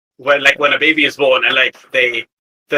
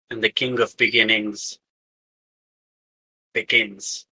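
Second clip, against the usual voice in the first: a touch lower, solemn otherworldly voice; 6 semitones lower than usual. Acted. Possessing entity explaining its summoning to the crew, low and solemn. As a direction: speak as something ancient, unhurried.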